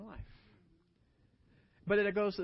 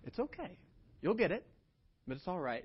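gentle reassurance. Retold or imitated. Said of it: "smile and say".

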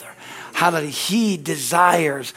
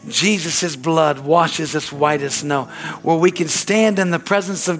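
slow solemn prayer; slower than usual. Acted.

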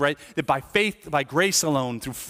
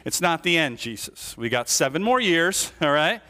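mock panicked protest; 3 semitones higher than usual. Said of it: "You're like".

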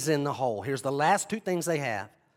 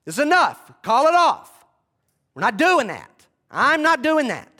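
high, loud, pleading to call it off; exasperated Pilate; 10 semitones higher, 8 dB louder than usual. Retold or imitated. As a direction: throw up your hands and shout enough.

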